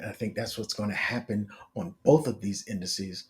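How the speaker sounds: raspy, worn-out voice; hoarse and strained, voice giving out; hoarse, losing voice. Real, not acted. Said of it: "I'm losing my voice".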